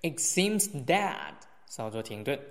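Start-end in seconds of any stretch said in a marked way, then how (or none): 0.0-1.3 slow "It seems that", then a brief stop; pause after phrase. Shown as a demonstration. (慢读"It seems that"后稍作停顿)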